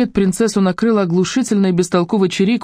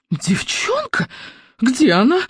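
a shriek, far higher; 7 semitones higher, slower than usual. Acted. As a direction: shriek it in rage. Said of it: "завизжала Зазельма".

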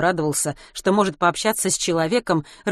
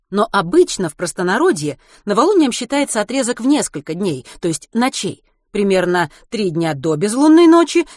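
lecturing teacher; 2 semitones higher, 4 dB louder than usual. Acted. Geography teacher explains.

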